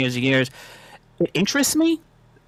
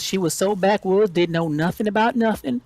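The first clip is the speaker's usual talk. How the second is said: lightly mimicked backwoods woman, higher pitched; hint of a backwoods talker, pitched up; 4 semitones higher than usual. Woman gossips about a skimming coworker, lightly mimicking her backwoods talk. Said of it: "she talked like this".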